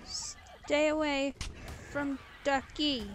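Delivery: slow, loud warning shout; drawn-out yell to back off. Real, not acted. Yelling at attacking creature.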